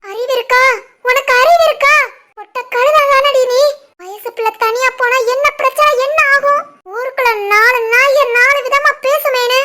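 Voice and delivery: indignant, rising rebuke; angry scolding. Acted. Mother-in-law berating her daughter-in-law for letting the girl go, angry scolding.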